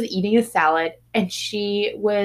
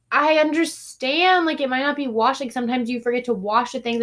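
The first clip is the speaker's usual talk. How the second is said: kind customer; 3 semitones higher than usual. Retold or imitated. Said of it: "She was like".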